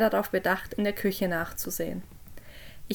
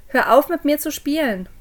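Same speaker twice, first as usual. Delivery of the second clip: higher, much louder scolding; angry shout; 5 semitones higher, 7 dB louder than usual. A narrator's reading. Parent yelling at hidden Jess in the cellar, angry shout. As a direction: shout it to stop the game. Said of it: "schrie ich".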